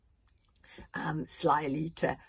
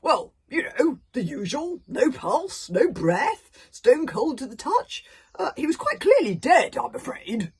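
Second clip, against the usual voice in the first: booming chief voice; 9 semitones higher, 13 dB louder than usual. A narrator's reading. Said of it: "Stoic looked surprised".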